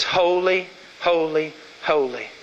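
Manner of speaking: hushed, reverent holy; solemn awe. Shown as a demonstration. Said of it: "It says".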